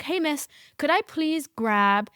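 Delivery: sarcastic mock request. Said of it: "I didn't say it quite like that".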